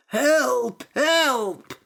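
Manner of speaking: loud, high cries for help; shouting for help. Acted. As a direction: yell from inside the basket. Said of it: "shouted the priest".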